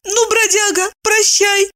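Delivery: high weeping farewell; squeaky tearful farewell. A narrator's reading. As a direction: squeak it out through tears. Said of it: "обливаясь слезами, пропищала она".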